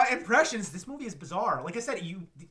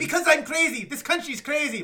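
high, loud hammed-up yelling; mock outburst; 9 semitones higher, 8 dB louder than usual. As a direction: rant like she's losing it. Quoting Madeline's outburst.

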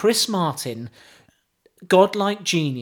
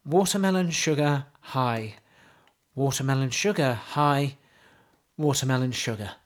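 mock poetry recital; 3 semitones lower than usual. Host reciting pop lyrics to co-host, mock solemn. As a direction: recite it like deep poetry, deadpan.

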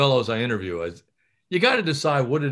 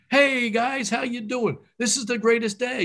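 pumped-up good morning to the staff; excited greeting; 10 semitones higher than usual. Shown as a demonstration. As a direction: greet the room like it's the best day ever. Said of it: "you gotta be excited".

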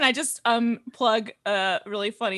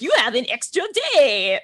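mock Italian accent; 3 semitones higher, 4 dB louder than usual. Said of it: "That's my Italian accent".

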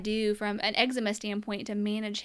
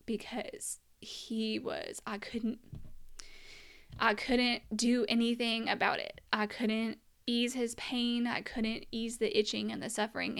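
getting emotional. Real, not acted. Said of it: "I'm getting a little emotional".

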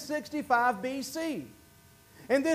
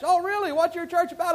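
higher-pitched curious reply; acted-out curious question; interested listener; 5 semitones higher than usual. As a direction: play the stranger asking with interest. Acting the invited person's reply.

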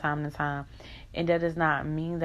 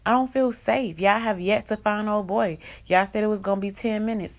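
heated protest; 3 semitones higher, 4 dB louder than usual. Real, not acted. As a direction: demand to be heard. Venting anger at management.

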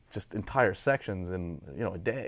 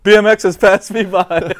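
much higher, louder frantic Sal impression; freaking-out Sal; 9 semitones higher, 15 dB louder than usual. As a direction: squeal it like Sal panicking. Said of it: "he's like".

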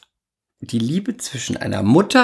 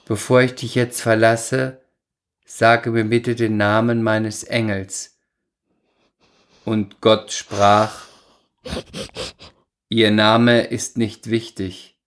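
ironic recital. Acted. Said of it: "Du schweifst wieder ab mit deinem Ton".

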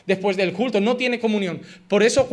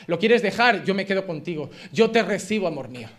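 mock tender wife; 3 semitones lower than usual. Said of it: "como diciendo".

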